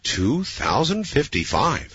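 slow, amazed echo; astonished. Real, not acted. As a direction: repeat it in slow disbelief. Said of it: "host echoes in astonishment".

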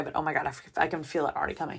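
real fighting back tears; holding back tears. Real, not acted. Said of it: "And I'm trying not to cry".

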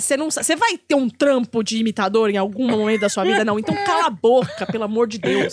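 loud, fed-up telling off; mock outburst, shouting him down; exasperated retort. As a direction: snap at a pestering brother. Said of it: "Eu falo".

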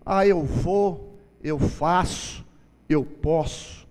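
slow, deliberate self-important boast; puffed-up braggart, words spaced out; mock boasting. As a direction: imitate chest-beaters, one weighty claim at a time. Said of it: "batem no peito e falam assim".

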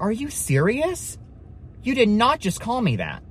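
high, drawn-out indignant disbelief; retold anger. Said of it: "I got so mad, so angry".

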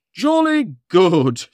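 slow, jolly Father Christmas; jolly Santa chuckle. Acted. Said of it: "chuckled Santa".

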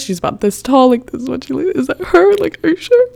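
incredulous questioning. Retold or imitated. Girl checking it is really her mother, incredulous. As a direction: pitch rising question by question. Asking for confirmation in retold exchange.

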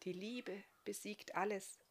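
soft, hushed answer; very quiet reply. A narrator's reading. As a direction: give it back softly. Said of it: "gab sie ihm ganz leise zurück".

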